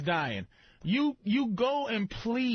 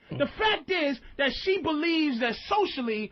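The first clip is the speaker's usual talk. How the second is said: heated rant; 4 semitones higher than usual. Real, not acted. Ranting about punching her.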